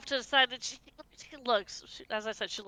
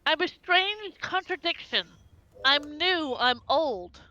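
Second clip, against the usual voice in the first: slow, measured riddle recital; riddle reading; slower than usual. Acted. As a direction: read it like an old riddle. Reads riddle note aloud.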